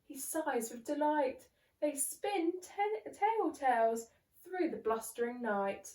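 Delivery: put-on lively read-aloud for children; bouncy story voice for little ones; storybook narration. A narrator's reading. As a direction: read it like a bedtime picture book. Narrating a picture book.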